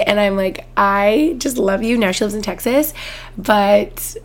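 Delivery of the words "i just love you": slow, tender I love you; slowed-down, tender affection; tender gush. Retold or imitated. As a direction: say it like you're melting. Gushing over a friend.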